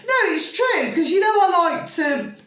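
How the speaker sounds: giggly insistence to a friend; laughing. Real, not acted. Laughing defence of sunbathing.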